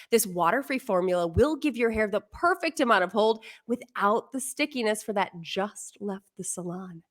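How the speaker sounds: smooth commercial read; anchor voice. Shown as a demonstration. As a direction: read it like a hairspray ad. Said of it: "my anchor voice".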